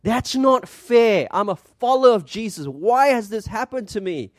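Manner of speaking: a mild hammed-up protest; mock self-pitying complaint. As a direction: play the hurt believer crumbling under adversity. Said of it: "we crumble and we think".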